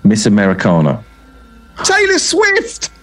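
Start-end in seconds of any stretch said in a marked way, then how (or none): 1.8-2.9 high, slow cry of the name; excited announcement. Acted. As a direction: announce it like a game-show reveal. Announcing the random pick.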